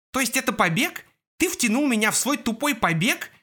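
high frantic cracking yell; shout, voice cracking with panic; voice-breaking shout. A narrator's reading. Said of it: "срывающимся голосом закричал Джаспер". (срывающийся крик)

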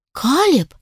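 sharp exasperated outburst of his name; flaring up. Acted. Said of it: "вспылила я". (вспылив, резко и выше)

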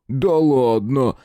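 медленное громкое «Да ладно!» с нажимом на «да»; лениво протянуть «да», по-хулигански; пробасил. A narrator's reading. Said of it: "пробасил Шима". (Шима нарочито протягивает жертве «Да ладно!» с ударным «да»)

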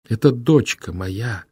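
high, loud cry with a sob in it; sobbing outcry. Acted. Fila cries out to her brother about her daughter, sobbing. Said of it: "выкрикнула Фила рыдающе".

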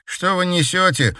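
sharp, high indignant cry; indignant outburst. Acted. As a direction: protest loudly, outraged. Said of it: "возмутился Игорь".

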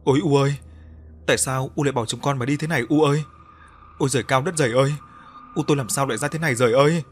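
gào lên như đứa con mất mẹ. Acted. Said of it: "miệng gào lên không ngớt". (Luân gào khóc bên xác mẹ, than van to và dồn dập)

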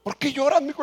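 ligera imitación del padre, más aguda; un toque de papá preguntando; padre al teléfono. Retold or imitated. (papá imitado levemente)

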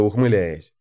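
ordinary delivery

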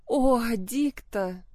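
calling out her friend's name in grief; a drawn-out grieving call; anguished cry. A narrator's reading. Anna bursts into tears.

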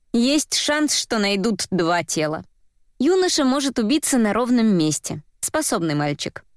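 ordinary delivery

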